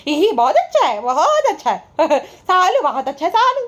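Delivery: high sputtering hee-hee laugh with words through it; hammed-up cackling imitation, gushing between giggles; mock motor laugh. Imitating her nonstop background laughing while the chain was bought, mock motor laugh. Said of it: "motor laugh दे रही थी बाजा".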